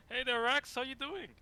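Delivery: high sing-song voice for a pet; cooing high voice. Acted. Greeting a small dragon.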